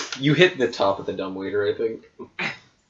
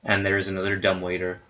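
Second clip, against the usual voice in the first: measured game master narration; scene setting; 2 semitones lower, 4 dB quieter than usual. Acted. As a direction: read the room description evenly. Game master reads room description.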